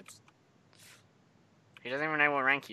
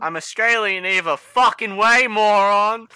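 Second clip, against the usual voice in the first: loud, higher, indignant comeback; irritated retort; 6 semitones higher, 9 dB louder than usual. Real, not acted. Interviewer answers teen questioning his accent, irritated retort. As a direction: shout it back, annoyed at being doubted.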